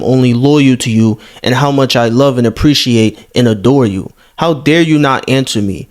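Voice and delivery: mocking the desperate fan. Reads a fan's desperate messages aloud.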